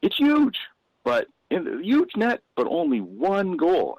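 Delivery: high, slow, emphatic build; stage punchline build. Retold or imitated. Comic performing his set to the Detroit audience, slow and emphatic. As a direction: lean into the joke, slowing down.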